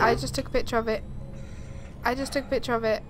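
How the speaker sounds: fast, rattled repeat; fast repetition. Real, not acted. Repeating herself to the game, fast and rattled. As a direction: rush the words out nervously. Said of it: "repeated faster".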